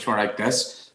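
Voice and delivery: brief Northern Irish accent demo. Shown as a demonstration. Showing how accents were there, Northern Irish accent. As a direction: drop into a Northern Irish lilt. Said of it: "Northern Ireland accents were".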